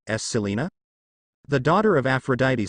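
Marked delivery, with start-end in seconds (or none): 0.1-0.7 shaky. Acted. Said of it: "shakily said".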